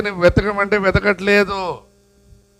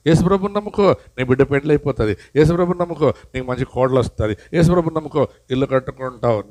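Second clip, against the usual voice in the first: mock false teacher; 3 semitones lower, faster than usual. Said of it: "తప్పు బోధలు బోధిస్తున్నారు".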